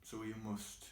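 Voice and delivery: soft, sinking voice with long pauses; subdued regret. Acted. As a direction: let it fall away quietly, phrase by phrase. Monologue sinks into regret.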